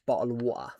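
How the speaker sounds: lightly imitated British pronunciation; caricatured British accent, understated; mock British accent. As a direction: mimic the British stereotype lightly. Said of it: "a lot of people say British".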